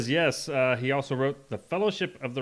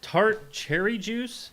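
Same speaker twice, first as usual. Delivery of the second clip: incredulous; 8 semitones higher, much slower than usual. Real, not acted. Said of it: "That was the answer?".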